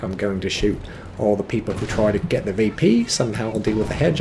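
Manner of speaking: hammed-up British player boasting; mock-grand British accent with a laugh up front; put-on British accent. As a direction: do a playful, exaggerated British accent. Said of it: "elaborating in my amazing British accent".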